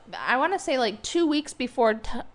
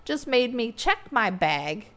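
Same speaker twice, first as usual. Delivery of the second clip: indignant; 5 semitones higher than usual. Retold or imitated. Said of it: "you're looking like, "Wait a minute".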